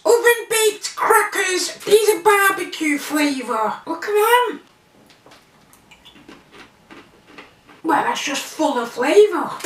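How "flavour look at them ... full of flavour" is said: talking between bites; half-chewed food in mouth; mouth full, chewing. Real, not acted. Seen 2: Just ate a cracker; jaw working with closed lips early on.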